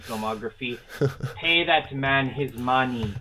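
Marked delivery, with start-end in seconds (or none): 1.4-3.1 bad Russian accent. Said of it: "my attempt at a Russian accent".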